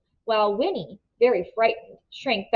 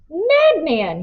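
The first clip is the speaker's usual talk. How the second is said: shouted; 7 semitones higher than usual. A narrator's reading. Tuck shouting at the man dragging Winnie away. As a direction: hurl it at him. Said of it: "he shouted".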